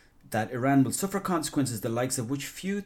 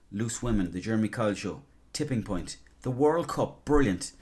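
pleased. Retold or imitated. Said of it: "before it was like".

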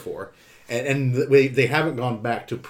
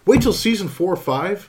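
incredulous; 6 semitones higher than usual. Real, not acted. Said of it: "repeats it as outraged question".

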